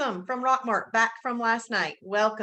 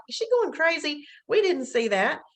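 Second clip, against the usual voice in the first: higher-pitched mock bewilderment; imitating puzzled viewers; 5 semitones higher than usual. Viewers wondering about the host's random answers, mock puzzled. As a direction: quote baffled onlookers, pitched up. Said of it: "people are like".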